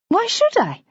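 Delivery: defiant. A narrator's reading. Bridget defiant.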